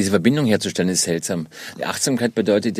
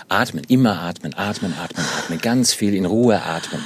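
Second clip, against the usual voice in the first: ruhige Atemanleitung; 2 semitones lower than usual. Shown as a demonstration. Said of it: "Ich lasse euch Zeit".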